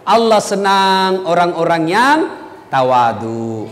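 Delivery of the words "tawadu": ordinary delivery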